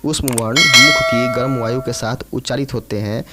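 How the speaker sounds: emphatic repeat. Shown as a demonstration. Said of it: "ठीक है".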